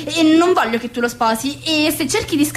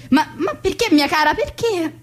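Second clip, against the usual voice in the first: insistenza incredula, voce che sale; supplica recitata; 4 semitones higher than usual. Acted. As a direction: implora l'amica al telefono con tono acuto. Pleading with guest on phone. (supplichevole e incalzante)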